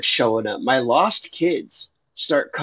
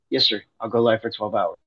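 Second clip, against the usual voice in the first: resigned yes sir. Retold or imitated. Gives in to God's command.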